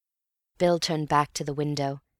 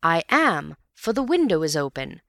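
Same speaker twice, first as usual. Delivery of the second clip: proudly; 5 dB louder than usual. Acted. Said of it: "Said I proudly".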